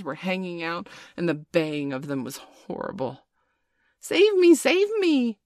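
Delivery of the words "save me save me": loud, very high cry for help; desperate cry. A narrator's reading. Nibs chased by a pack of wolves, desperate cry. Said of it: "cried Nibs".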